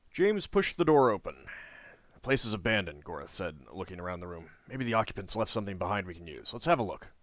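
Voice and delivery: steady storybook read-aloud; story narration. A narrator's reading. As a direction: read the quest text like a novel. Reading the game's story text.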